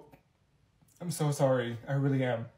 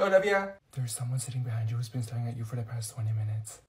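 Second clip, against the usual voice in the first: ordinary talk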